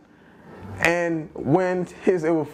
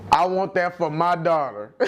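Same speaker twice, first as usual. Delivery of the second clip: giggling through her words; laughing mock apology. Friend mocking the woman's excuse, laughing. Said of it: "That's what she said".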